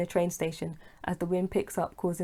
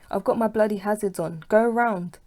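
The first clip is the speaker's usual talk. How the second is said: louder, higher, shouting at drivers; angry shout; 3 semitones higher, 6 dB louder than usual. Acted. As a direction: yell at the car behind. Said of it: "he shouts at them angrily".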